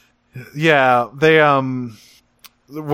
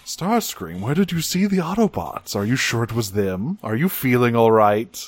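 gentle Megatron. Retold or imitated. Megatron checking on panicked Starscream, very gently. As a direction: humour him with careful, mock-gentle questions. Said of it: "Megatron just very gently is like".

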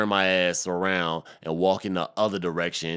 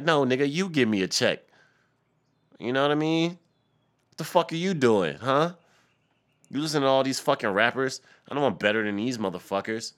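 raised, high-pitched indignant demand; screaming rant; 6 semitones higher, 4 dB louder than usual. Real, not acted. Rapper demanding a check from the A&R, screaming rant. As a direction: rant loudly and heatedly. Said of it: "I'm in this bitch screaming right now".

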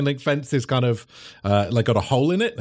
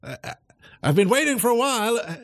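high calling voice, quicker at the end; professor calling; 11 semitones higher than usual. Acted. The cat professor calling into the warehouse, high and quick. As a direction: call out into the room, impatient. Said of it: "the professor is like".

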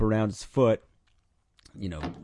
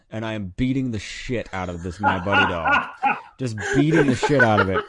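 laughing through the telling; 5 dB louder than usual. Real, not acted. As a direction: chuckle while you tell it. Laughing retelling doll beating.

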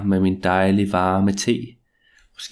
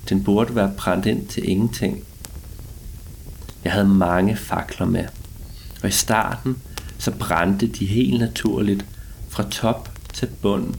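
story narration. A narrator's reading. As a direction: draw out each line like a ghost story. Spooky first-person tale after intro.

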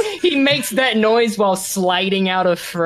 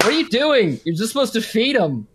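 higher, indignant scolding; indignant guard; 4 semitones higher than usual. Acted. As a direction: tick off a subordinate in disbelief. Guard scolds the would-be interrogator.

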